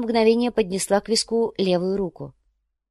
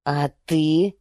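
growled; 2 semitones lower than usual. A narrator's reading. Spaniard growls back at his wife. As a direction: growl the question back at her. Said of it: "прорычал испанец".

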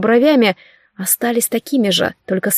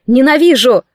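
louder, raging cry; shouted hate; 2 semitones higher, 5 dB louder than usual. A narrator's reading. Наргиз screams hatred at the sorcerer. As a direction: hurl the word at him.

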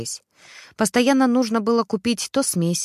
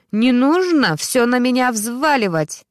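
louder, slower outraged protest; loud indignation; 4 semitones higher, 5 dB louder, slower than usual. A narrator's reading. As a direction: push the blame back at him. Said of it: "громко возмущалась Ксюша". (громко возмущаясь)

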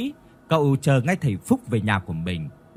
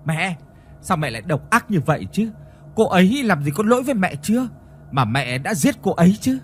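angry reproach; 5 semitones higher than usual. Acted. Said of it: "nhìn mẹ mình bực tức rồi nói".

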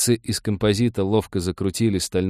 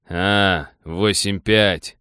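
exaggerated joy; 4 dB louder, much slower than usual. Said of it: "с преувеличенной радостью воскликнул".

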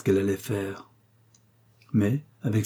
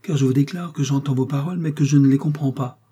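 regal and lofty, pitched up; majestic; 5 semitones higher, 4 dB louder than usual. A narrator's reading. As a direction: speak like a queen in chains. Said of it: "reprit la prisonnière avec majesté".

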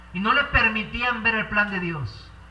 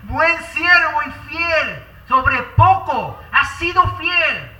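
slow, laughing-warm blessing; slow joyful welcome; 3 semitones higher, 8 dB louder, slower than usual. Acted. The Lord welcoming the faithful into joy, slow and glad. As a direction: welcome them home with joy, unhurried. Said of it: "Y él va a decir".

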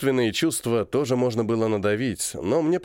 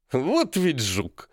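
very slow, with grudging admiration; the colonel marveling at a cheeky boy, very slow; admiring; 3 semitones higher, much slower than usual. Acted. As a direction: savour it like praise for a sly rascal. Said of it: "даже с восхищением сказал Ефремов".

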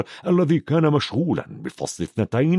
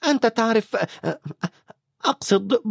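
higher, flustered stern witch; grudging praise, stumbling on the name; half annoyed, half admiring; 10 semitones higher than usual. Acted. McGonagall praises Dumbledore grudgingly, flustered. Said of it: "نصف مستاءة ونصف معجبة".

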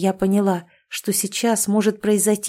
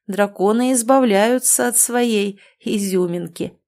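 mocking contempt. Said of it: "с таким насмешливым презрением".

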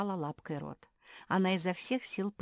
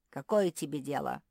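snapping; 6 dB louder than usual. Acted. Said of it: "огрызнулась Квакушка".

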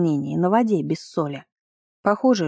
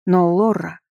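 plaintive mew; slower than usual. A narrator's reading. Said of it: "мяукнула попаданка жалобно".

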